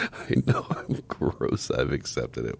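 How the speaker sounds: slow, breathy mock of her words; teasing whispered imitation of a friend. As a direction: echo her back in a hushed, slow, mocking tone.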